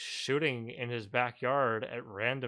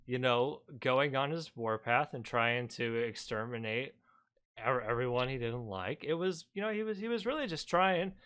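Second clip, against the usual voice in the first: mock-reasonable sarcastic defense; 2 semitones higher than usual. Streamer parodying the video's excuse-making, sarcastic. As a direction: feign agreement, dripping with irony. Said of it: "That was sarcasm".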